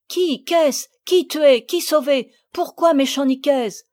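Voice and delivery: high, loud startled questions; confused, trying to follow; bewildered. Acted. Madame de Fleurville confused by the girls' clamour.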